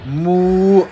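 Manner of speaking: a mock cow moo, barely different from her own voice; lightly voiced cow moo, deadpan. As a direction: moo like a cow with a straight face. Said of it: "wanna hear my cow impression".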